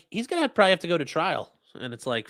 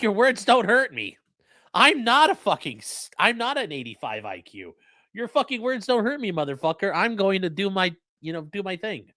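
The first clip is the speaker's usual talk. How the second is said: mock defiant; 4 semitones higher than usual. Mock defiant tough guy.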